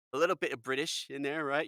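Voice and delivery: a hint of bad British; American attempting a light British accent; terrible British accent. Shown as a demonstration. Game host demonstrating accents for the cards, terrible British accent. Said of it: "that's my terrible American British accent".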